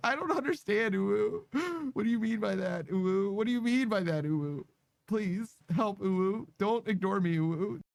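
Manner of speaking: high playful ooh tag; ooh redeem voice. Pretend. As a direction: tack a cooing ooh onto everything. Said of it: "count ooh as a word".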